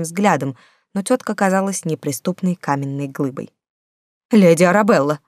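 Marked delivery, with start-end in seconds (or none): 4.3-5.2 exclaiming. Acted. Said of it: "воскликнул он".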